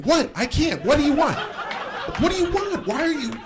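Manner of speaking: high, harried pleading; hammed-up helpless exasperation; mock flustered. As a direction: protest in a flustered squeal. Flustered reply to yelling driver.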